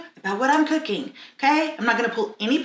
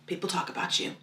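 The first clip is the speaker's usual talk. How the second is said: hushed gossip whisper; 6 semitones lower, 13 dB quieter, faster than usual. Acted. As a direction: lean in and whisper it. Gossip confided to camera.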